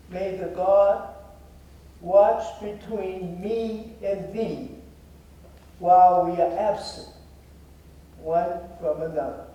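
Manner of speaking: stately Bible verse, phrase by phrase; solemn scripture recital. Real, not acted. Recites the ring's King James motto.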